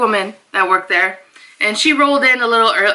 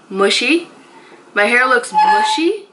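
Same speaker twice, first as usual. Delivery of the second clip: incredulous; 3 semitones higher than usual. Real, not acted. Repeats insult in disbelief.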